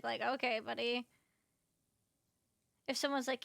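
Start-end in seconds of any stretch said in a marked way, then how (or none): 0.2-1.1 a dry, sarcastic "Okay, buddy". Shown as a demonstration. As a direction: roll your eyes through "Okay, buddy". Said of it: "a sarcastic".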